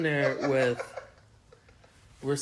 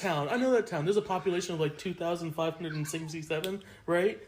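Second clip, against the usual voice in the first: higher, know-it-all fact reciter; 5 semitones higher than usual. Retold or imitated. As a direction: rattle off facts to sound local. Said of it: "throw statistics out".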